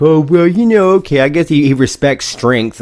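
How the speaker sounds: a sneering bigot grudgingly conceding; mock racist. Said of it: "Like a typical, like, piece of shit racist".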